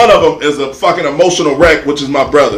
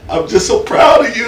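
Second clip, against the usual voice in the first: mock tearful; 5 semitones higher than usual. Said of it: "in full-blown tears".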